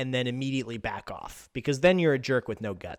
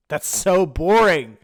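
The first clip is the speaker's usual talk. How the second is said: laughing; 3 semitones higher, 6 dB louder, slower than usual. Real, not acted.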